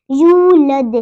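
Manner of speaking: यूलद with long yoo and echoing D; qalqala. Shown as a demonstration. Teacher models the madd letter, echoing यूलद. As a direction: hold the yoo of यूलद, bounce the end. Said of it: "दाल साकिन पे कलकला होगा".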